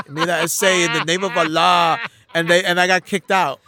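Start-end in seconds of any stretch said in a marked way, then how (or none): 0.1-2.0 a hammed-up Mexican accent, a bit louder; deliberately wrong Mexican accent for a Muslim role. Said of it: "so I did it with a Mexican accent".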